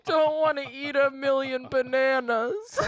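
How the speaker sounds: giggling through the words; laughing while protesting. Real, not acted. Forced to say the line.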